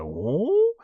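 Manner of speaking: curious ooh. Retold or imitated. Imitates Doo's curious reaction.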